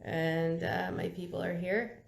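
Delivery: rough, gravelly voice after anesthesia; hoarse and gravelly from the tube. Real, not acted. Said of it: "and I sound gra-, gravelly".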